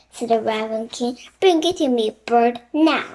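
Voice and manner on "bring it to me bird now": commanding. Acted. King commanding the bird.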